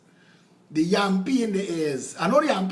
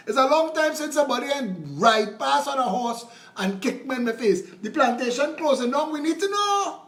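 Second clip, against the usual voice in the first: mock slave complaint; 5 semitones higher than usual. Slave complaining to master, comic role.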